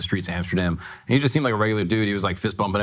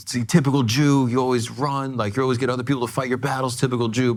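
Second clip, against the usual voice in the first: mock drunk taunt; 5 semitones higher than usual. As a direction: imitate a hostile drunk jeering. Retold drunk man's hostile taunt.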